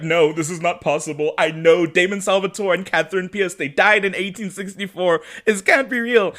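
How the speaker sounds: rising into a panicky pitch, line by line; mock freak-out. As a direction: voice climbing in mock disbelief. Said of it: "She starts freaking out".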